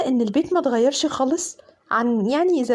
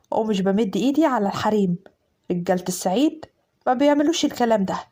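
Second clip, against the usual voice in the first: lower, commanding man's voice; stern Upper Egyptian husband; 4 semitones lower than usual. Acted. Fahd telling his new wife the rules, stern and low. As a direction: lay down the house rules, firm.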